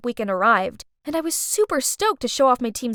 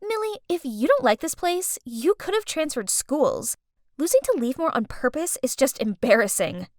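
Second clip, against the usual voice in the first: mocking. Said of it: "mocked me".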